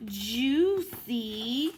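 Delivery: gentle, lively storybook read-aloud; reading to children. Acted. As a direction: read it to little ones at story time. Reads picture book to kids.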